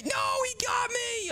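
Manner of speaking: caught cry. Real, not acted. Caught in hide and seek.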